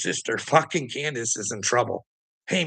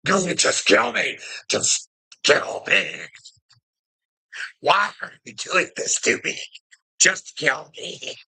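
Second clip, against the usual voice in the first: higher, slow, drawn-out plea to die; mock Moses pleading; 6 semitones higher than usual. Retelling the Ten Commandments movie, hammed-up pleading prophet. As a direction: ham up a weary prophet begging. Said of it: "And he's like".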